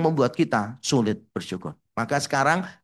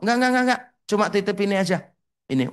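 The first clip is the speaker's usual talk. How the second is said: church auntie voice; 5 semitones higher, much faster than usual. Retold or imitated.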